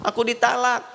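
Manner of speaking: high, hammed-up tearful whine; mock crying. Wife telling mother she was sent away, mock crying. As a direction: whine it out in fake sobs, pitched high. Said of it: "Dia pulang nangis".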